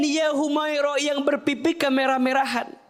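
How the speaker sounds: praising call. Shown as a demonstration. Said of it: "Jadi dipanggil dengan pujian".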